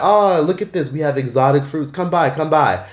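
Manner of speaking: lightly voiced eager market seller; friendly vendor. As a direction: call the tourist over like a cheerful vendor. Vendor lures tourist to shop.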